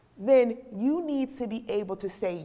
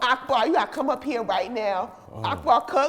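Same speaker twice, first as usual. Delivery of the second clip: ordinary delivery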